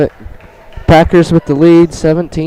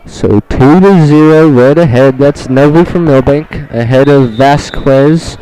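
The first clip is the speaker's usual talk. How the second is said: announcer calling the match; live play-by-play call; 3 dB louder, slower than usual. Acted. Announcer calls the match score.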